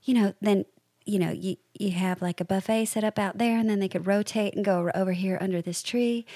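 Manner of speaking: lightly imitated Southern hostess; clumsy, light Southern accent; bad Southern accent. Mother-in-law planning the flow of a party, bad Southern accent. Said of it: "this doesn't sound anything like her".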